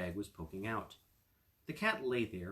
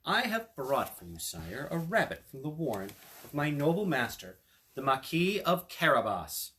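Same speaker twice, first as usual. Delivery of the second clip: the cat speaking; 4 semitones higher, 6 dB louder than usual. Acted. Cat addresses the king.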